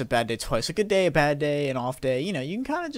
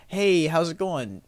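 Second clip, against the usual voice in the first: simple friendly greeting; 3 semitones higher, 4 dB louder, much slower than usual. Retold or imitated. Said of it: "it was just a simple".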